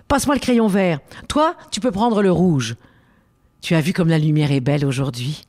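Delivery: petite fille enjouée; voix de fillette enthousiaste; voix de Frida. Acted. Frida speaks in the story. (petite fille qui accueille son ami avec joie)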